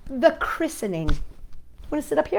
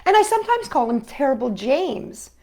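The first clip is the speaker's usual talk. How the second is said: put-on lightly rhythmic read-aloud of a children's poem. A narrator's reading. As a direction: read it to the kids with a gentle lilt.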